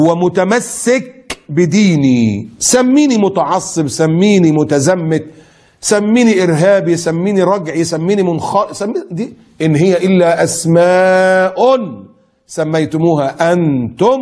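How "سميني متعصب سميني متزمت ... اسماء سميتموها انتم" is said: defiant preaching. Real, not acted. Defiant list of insults.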